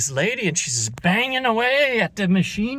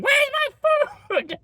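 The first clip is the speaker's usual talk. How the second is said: much higher and slow, drawn-out whine; mock Karen voice; much slower than usual. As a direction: stretch out the complaint like a spoiled customer. Karen back in demanding food.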